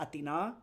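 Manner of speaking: Athena as ah-thee-NAH; Athena, weight on the last A; stress on final A. Shown as a demonstration. Streamer says Athena as the city's name, stress on final A. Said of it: "really stress that final A".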